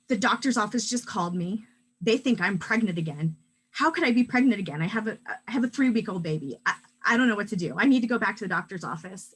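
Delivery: fast, loud, panicked rush. Retold or imitated. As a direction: rattle it off in panic. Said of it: "she calls me in a real panic".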